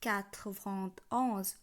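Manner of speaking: "quatre vingt onze" slowly, word by word; French pronunciation demo. Shown as a demonstration. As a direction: set "onze" apart, letting it fall. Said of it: "একানব্বই উচ্চারণ হবে".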